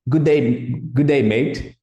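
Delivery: put-on light Australian accent on good day mate; a mild Australian twang; Australian greeting. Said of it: "he said".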